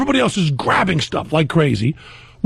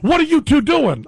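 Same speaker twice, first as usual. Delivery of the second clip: stewardess; 10 semitones higher than usual. Retold or imitated. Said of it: "flight attendant's going".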